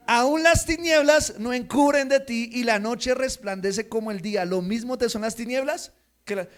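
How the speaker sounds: loud, measured psalm reading; reading Psalm 139 aloud with fervor; scripture reading. Acted. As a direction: proclaim the psalm to the congregation.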